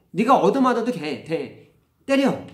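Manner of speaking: acted high, loud egging-on; retold heated fatherly command; forceful urging. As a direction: fire the child up to fight back. Father egging child to hit back.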